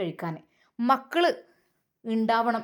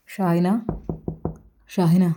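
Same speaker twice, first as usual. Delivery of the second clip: calling out; 6 semitones lower, 4 dB louder, slower than usual. Acted. Husband calls his wife.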